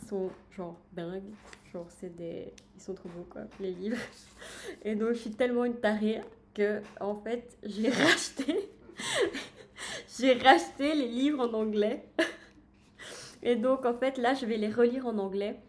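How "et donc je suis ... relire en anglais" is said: giggling through it, louder at the end; sheepish laughing confession. Real, not acted. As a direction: laugh at your own craziness while confessing. Laughing at her own book obsession.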